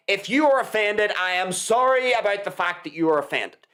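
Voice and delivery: understated sarcasm, in a level everyday pitch; sarcastic apology. Retold or imitated. Retelling a guest's apology to the offended, mildly sarcastic. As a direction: apologize without meaning a word of it. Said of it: "He said it in a sarcastic way".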